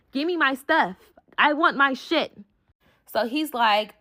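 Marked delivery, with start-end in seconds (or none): 0.1-2.4 higher-pitched angry demand; acted-out demand for belongings; going off. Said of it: "I'm in the car going off".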